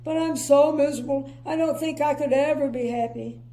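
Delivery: lightly voiced glum whine; miserable. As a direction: say it with a touch of misery. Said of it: "he added miserably".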